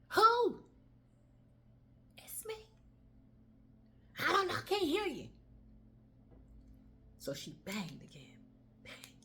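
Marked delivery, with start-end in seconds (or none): 0.1-0.6 loud high call through the door; shouted. Acted. Friend shouting through the door at the knock. 2.2-2.7 high faint whispered reply; weak whisper. Acted. Exhausted woman whispering through the door. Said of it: "could not holler back". 4.2-5.3 mild mock call. Friend calling through door.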